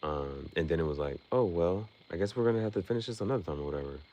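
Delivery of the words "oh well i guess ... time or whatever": mock rival farewell. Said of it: "mocks the rival's exit line".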